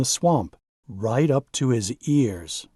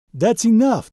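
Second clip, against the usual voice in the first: a sharp, loud and much higher holler; 9 semitones higher, 5 dB louder than usual. Acted. Donald hollering at Rusty to stop loading, loud and high. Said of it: "Donald hollers".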